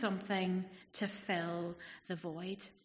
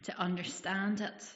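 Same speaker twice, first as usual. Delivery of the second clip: hushed congregational prayer; 3 semitones lower than usual. Real, not acted. Opening prayer before the sermon.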